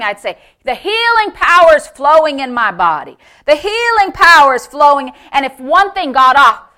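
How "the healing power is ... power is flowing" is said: emphatic faith declaration; forceful, proclaiming delivery; bold confession. Retold or imitated. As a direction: declare it boldly and firmly. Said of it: "this is how he talks".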